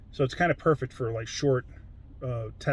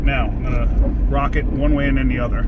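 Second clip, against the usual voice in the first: raised voice; 9 dB louder than usual. Real, not acted. Talking while driving the truck.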